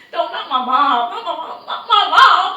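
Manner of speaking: high, rising cry of denial; distraught protest. Retold or imitated. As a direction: plead against it, retelling the shock. Retelling own reaction to bad news.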